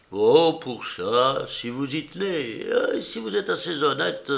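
high, sweetly mock-polite old woman; old enameller woman. Old woman introducing herself to the painter, high and coy. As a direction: play the coy old artist handing over her card.

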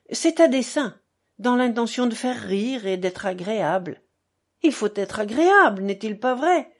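animated, emphatic self-presentation; a hint of theatrical pleading; lightly voiced buffoon. Narrator plays the buffoon's confession.

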